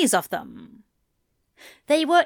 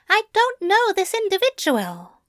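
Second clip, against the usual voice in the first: frustrated blurt; 11 semitones higher than usual. A narrator's reading. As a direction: blurt it out, fed up. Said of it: "blurted in frustration".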